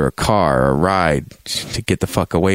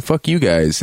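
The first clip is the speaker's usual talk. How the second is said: dismissive curse, mildly heated; mock defiance; 2 semitones higher than usual. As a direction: fling it at them, half in jest. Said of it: "And they're like".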